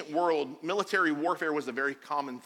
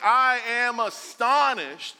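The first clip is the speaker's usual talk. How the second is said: raised pitch, indignant reproach; angry, frustrated; 4 semitones higher, 4 dB louder than usual. Retold or imitated. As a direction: act out Paul's exasperated rebuke. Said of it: "frustrated. He's like".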